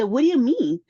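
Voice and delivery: stunned that she's being arrested; shocked disbelief. Retold or imitated.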